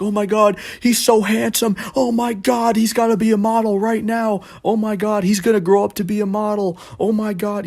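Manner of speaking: high, frantic mock shriek; screaming old lady. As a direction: gush wildly over a cute kid. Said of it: "screaming at the top of her lungs".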